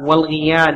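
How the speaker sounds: "والغيال" said wal-ghiyaal; short i after the ghayn in "والغيال"; kasra on ghayn. Shown as a demonstration. Reader giving a third form of the word, kasra on ghayn. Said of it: "بكسر العين".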